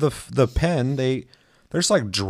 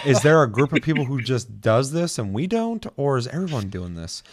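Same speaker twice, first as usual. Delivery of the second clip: laughing disbelief; 3 semitones higher than usual. Retold or imitated. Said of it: "I'm like".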